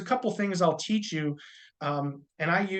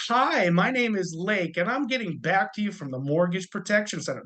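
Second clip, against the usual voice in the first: customer service voice; 3 semitones higher than usual. Shown as a demonstration. Agent greeting a lead in a customer service voice. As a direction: sound like a telemarketer. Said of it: "That's a customer service voice".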